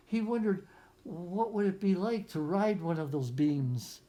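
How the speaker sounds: put-on reading a picture book aloud to children; story narration. A narrator's reading. Teacher reading a picture book to young students, storytelling voice. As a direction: lift the lines like a storyteller for a class.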